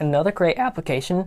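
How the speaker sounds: voice breaking and cracking mid-phrase. Describing uses for a card deck, voice cracking. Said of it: "that was a bad voice crack".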